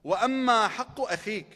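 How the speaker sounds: rapid recited Arabic quote; quick Arabic recitation. Acted. Preacher quoting the Imam's Arabic to the crowd, rapidly recited. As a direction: rattle off the source text.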